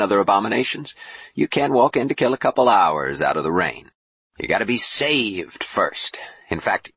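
animated, lightly voiced preacher; preaching bishop. Boone tells Jubal of the one true church, preaching. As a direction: sermonize with rising zeal.

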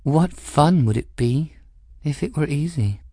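cool, arch noblewoman with a sly edge; Cavendish voice. Acted. Cavendish needling the captain, arch and cool. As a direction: speak as the poised Madame Cavendish, lightly mocking.

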